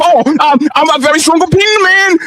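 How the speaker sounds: mocking imitation. Mockingly acts out the guest's self-promotion.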